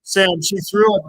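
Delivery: loud, urgent pleading; urgent outrage. Real, not acted. Streamer pleading with friend Sam, loud outrage. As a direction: make Sam hear it, outraged.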